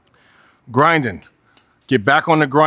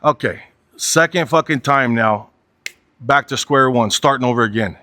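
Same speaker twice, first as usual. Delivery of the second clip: heart sunk; 3 semitones lower than usual. Retold or imitated. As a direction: retell it with a touch of heavy resignation. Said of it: "my heart just sunk".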